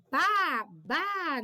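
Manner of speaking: short surprised gaúcho "bah" demo; southern Brazilian exclamation. Shown as a demonstration. Teacher showing pupils a southern surprised bah. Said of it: "aí eles dizem".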